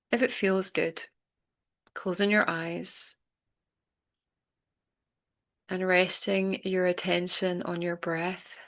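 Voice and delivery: unhurried meditation guide, long pauses between phrases; calm, spacious breathing-exercise delivery; guided meditation. Acted. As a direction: gently guide listeners into letting go, leaving space.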